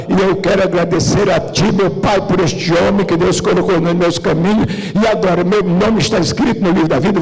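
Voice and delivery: loud, impassioned retold confession; fervent confession. Taxi driver confesses Jesus to the pastor, retold fervently. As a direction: declare it loudly, acting out a new convert.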